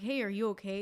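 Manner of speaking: whispered check-in. Retold or imitated. Brother whispering to check on his sister. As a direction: whisper it gently through a door. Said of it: "he's checking on me, like".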